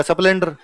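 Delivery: स्प्लेंडर with a vowel added in front, "asplendar"; wrong pronunciation. Retold or imitated. Student repeating the teacher's word, स्प्लेंडर said as asplendar. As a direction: put an "a" before स्प्लेंडर. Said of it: "आधे अक्षर नहीं बोल पाते".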